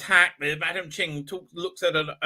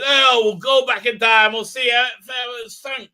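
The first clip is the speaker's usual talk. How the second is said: higher, louder, eager announcing voice; mock eagerness; 5 semitones higher, 8 dB louder than usual. Doctor proposing time travel to Yaz, mock eagerness. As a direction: imitate a gung-ho plan with hammed-up enthusiasm.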